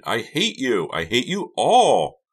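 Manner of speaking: high, loud, building to a drawn-out cry; furious outburst. A narrator's reading. Karina rages at all of them, furious outburst. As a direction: scream it in rage. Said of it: "one more furious roar".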